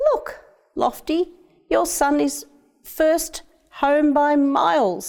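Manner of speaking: high, thrilled call; excited boy. A narrator's reading. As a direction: cheer the winning bird with pride. Boy cheers pigeon winning race.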